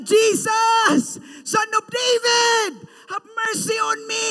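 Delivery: very loud, high desperate cry. Acted. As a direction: shout with everything he has. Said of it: "He even shouted louder".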